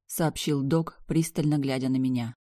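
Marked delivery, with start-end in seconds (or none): none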